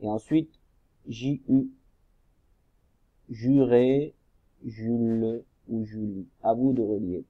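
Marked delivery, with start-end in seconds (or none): 3.3-6.3 "Juré, Jules ou Julie" with both syllables sounded out; syllables joined. Shown as a demonstration. Teacher shows pupils which syllables to link, careful blending. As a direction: draw out "Ju" and attach each ending, "Jules" in two syllables. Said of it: "la première syllabe à la deuxième syllabe".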